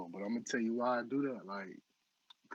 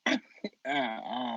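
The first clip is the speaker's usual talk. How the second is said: breaking into laughter; high laugh taking over the last words; can't hold the laugh in; losing composure; 12 semitones higher, 5 dB louder than usual. Real, not acted. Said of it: "I cannot keep my composure".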